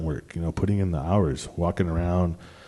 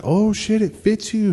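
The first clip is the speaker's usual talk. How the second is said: put-on much higher, surprised girlfriend voice; imitating his girlfriend; 13 semitones higher than usual. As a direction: squeal it like she's amazed. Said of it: "she's like".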